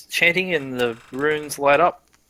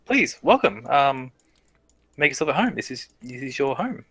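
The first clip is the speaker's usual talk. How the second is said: a hint of an eager guard; lightly voiced flustered guard; fawning guard. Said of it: "he goes".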